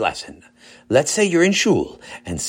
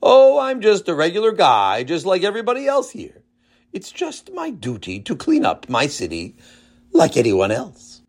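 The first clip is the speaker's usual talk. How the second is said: showy modesty; 3 semitones higher than usual. Acted. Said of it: "modestly, but loudly enough for the reporters".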